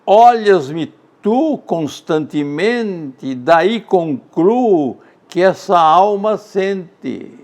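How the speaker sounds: slow, deliberate verse reading; measured poetic cadence; poem recitation. Acted. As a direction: weigh each syllable. Recites João de Deus poem.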